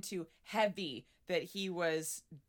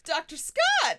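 mock angry call; 7 semitones higher, 7 dB louder, slower than usual. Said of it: "got angrier and angrier".

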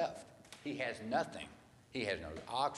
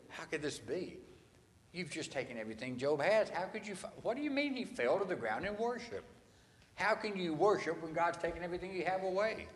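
higher, disbelieving, hands on the head; incredulous disbelief; 6 semitones higher than usual. Retold or imitated. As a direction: ask it in stunned disbelief. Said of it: "the hands on the head kind of thing".

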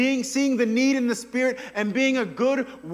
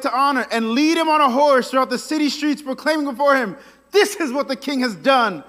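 grand Haman; 5 dB louder than usual. Retold or imitated. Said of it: "He says".

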